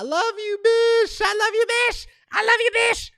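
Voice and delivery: squeaky high-pitched love call; to friend Esperanza, a high squeaky love call; high silly voice. Pretend. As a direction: sing it up high to your friend.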